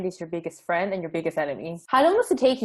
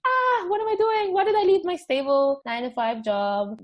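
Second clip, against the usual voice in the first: mock panic; 9 semitones higher than usual. Panicked entrepreneur quote.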